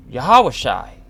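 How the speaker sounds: "Yahweh Shai" said as yuh-HAH-wuh-shy, loud; alternative pronunciation. Shown as a demonstration. Giving another version some would say, "Yahweh Shai" pronounced yuh-HAH-wuh-shy. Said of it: "Or as some would say".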